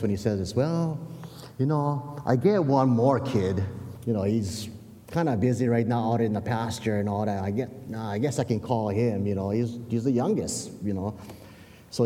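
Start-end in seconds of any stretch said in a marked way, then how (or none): 0.5-11.1 lightly voiced reluctant father; a hint of a dad hedging about his youngest; Jesse. Father admits to one more kid, lightly acted reluctance. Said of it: "the inflection in, in, in Jesse's voice".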